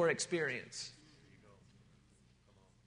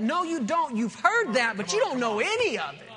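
louder and higher, cutting him off; flat contradiction, raised voice; firm loud rebuttal; 4 semitones higher, 4 dB louder than usual. Retold or imitated. Pastor firmly contradicting.

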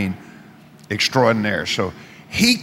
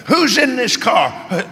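higher, slow, uneasy asking; spooked question; 8 semitones higher, slower than usual. Retold or imitated. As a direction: ask it like something unseen is there. Kidnapper spooked by voice.

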